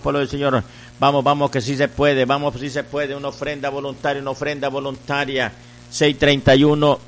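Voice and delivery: insistent, rhythmic pledge-drive chant; radio offering appeal. Real, not acted. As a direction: urge listeners to call, repeating in rolling phrases. Leads a radio offering appeal, urging calls. (llamado insistente y rítmico a ofrendar)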